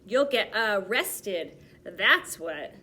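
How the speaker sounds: loud, slow triumphant shout. A narrator's reading. Policeman's friend catching the thieves, loud triumphant shout. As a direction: bark it at the caught thieves. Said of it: "shouted Mister Dart".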